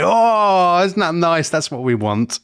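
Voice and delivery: high, cooing "oh" settling down; hammed-up delighted sigh of approval; mock gushing approval. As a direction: imitate charmed voters swooning. Voicing swooning voters' naive approval.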